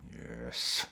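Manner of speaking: low, soft purr of deep satisfaction; a mock connoisseur's quiet yes; deep satisfied yes. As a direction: savour it like fine wine. Reaction to Jota scoring.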